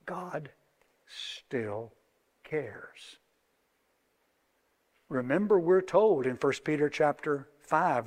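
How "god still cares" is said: soft, slow, down to a whisper; gentle hushed reassurance; tender whisper. Real, not acted. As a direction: breathe it as comfort. Tender closing point.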